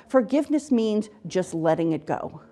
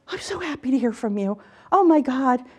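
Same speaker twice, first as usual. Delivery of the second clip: higher-pitched happy exclamation; retold overjoyed brother; 5 semitones higher than usual. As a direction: imitate a relieved caller, pitch lifted. Voicing brother's happy phone call.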